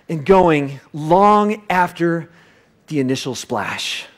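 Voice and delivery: slow, stretched words fading; slowed, trailing off; drawn out. Acted. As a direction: stretch it long and let it fade. Ripples fading.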